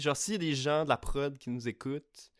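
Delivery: grand, solemn rallying call over violins; rally them like an epic speech; mock inspirational speech. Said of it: "imaginez la musique, des violons en arrière de ma voix". (discours inspirant exagéré)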